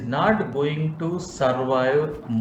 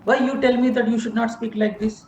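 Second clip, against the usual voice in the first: indignant mock protest; 6 semitones higher than usual. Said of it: "Patanjali Maharshi told we should speak the truth".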